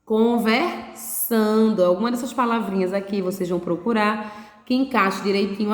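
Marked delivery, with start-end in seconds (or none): 0.0-1.8 "Conversando" stretched very slowly, syllable by syllable, falling; "Conversando" said very slowly with a falling end; drawn-out answer. Shown as a demonstration. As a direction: drag out "Conversando" as the answer to the question. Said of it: "mamãe está fazendo o quê?".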